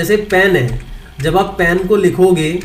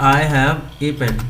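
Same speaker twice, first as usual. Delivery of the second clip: slow reading; 3 semitones lower, 4 dB quieter, much slower than usual. Shown as a demonstration. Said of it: "तो मैंने लिख दिया".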